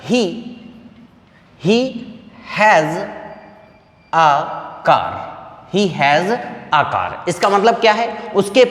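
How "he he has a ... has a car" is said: very slow, word by word; slow model sentence read out; slow dictation. Shown as a demonstration. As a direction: dictate it slowly for the class. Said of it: "देखिएगा मैंने बोला".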